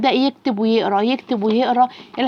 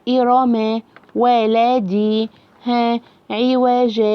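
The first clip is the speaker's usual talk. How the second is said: syllable drill; much slower than usual. Shown as a demonstration. Teacher models drawn-out reading drill.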